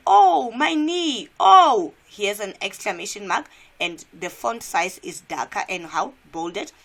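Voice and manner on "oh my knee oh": high, loud, drawn-out cry; slow, hammed-up yell of pain; screaming in pain. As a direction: wail it out as an injured faker. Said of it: "screaming out these words and shouting them out".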